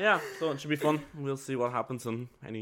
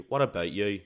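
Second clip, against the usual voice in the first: asked in a Northern Irish accent; Northern Irish lilt; 3 semitones lower, 3 dB louder than usual. Shown as a demonstration. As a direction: say it like someone from up north in Ireland. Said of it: "in the English way would be".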